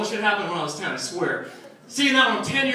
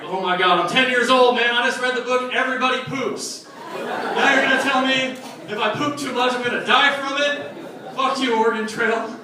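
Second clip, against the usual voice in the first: put-on panicked kid rant; 3 semitones higher than usual. A kid at ten rants at Oregon Trail, mildly panicked. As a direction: rant like a scared ten-year-old. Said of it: "And I'm like".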